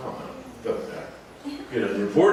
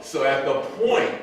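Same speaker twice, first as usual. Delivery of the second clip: laughing; 12 semitones higher, 4 dB louder, slower than usual. Real, not acted. Laughing at porn star email.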